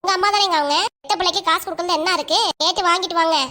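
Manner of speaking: bossy, mildly cross insistence; angry ordering. Acted. Wife sending husband to ask his mother for money, angry ordering. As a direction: order him about impatiently. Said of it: "இவ்வளவு கோவமா order போடுற பாத்தியா?".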